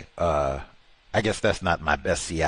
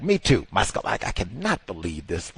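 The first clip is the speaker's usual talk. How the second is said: normal talking voice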